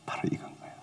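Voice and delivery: very soft unvoiced whisper; whispered close to the mic. Real, not acted. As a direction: hush it to a breath. Whispered conclusion.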